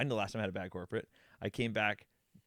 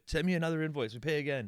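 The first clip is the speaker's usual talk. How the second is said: put-on drunk German client; 6 semitones higher, 3 dB louder than usual. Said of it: "he's drunk and he's German".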